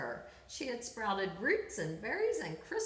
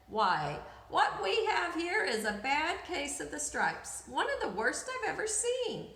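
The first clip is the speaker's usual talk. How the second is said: put-on old woman voice; 3 semitones higher, 3 dB louder than usual.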